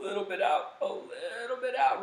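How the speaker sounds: high, airy voice letting air out; high breathy release. Shown as a demonstration. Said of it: "you're just holding that balloon".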